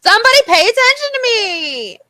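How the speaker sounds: hammed-up plea, pitch climbing at the end; mock needy. Getting drunk and wanting to be noticed, mock needy. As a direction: play up being drunk and needy. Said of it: "I was being a needy Nikki".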